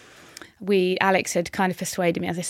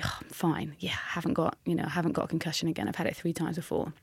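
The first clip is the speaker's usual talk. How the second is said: brushing it off; 6 dB quieter than usual. Retold or imitated. Athlete telling herself the concussion is nothing, quietly dismissive. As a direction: softly wave the worry away, voice dropped.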